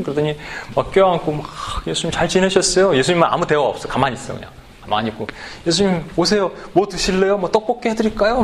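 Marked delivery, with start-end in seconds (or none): 1.9-3.0 eager welcome. Acted. Skit host fusses over guest. 5.7-8.4 eager hosting. Acted. Skit host fusses over guest.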